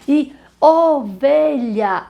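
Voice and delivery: "ovelha" bem devagar e mais agudo; sílabas marcadas. Shown as a demonstration. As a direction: abra bem a boca em "o-ve-lha". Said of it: "abri a boca pra dizer ovelha". ("ovelha" silabado devagar)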